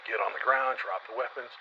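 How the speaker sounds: mild mock yell of orders; retold yelling. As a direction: bark the orders, lightly. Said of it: "this guy starts yelling".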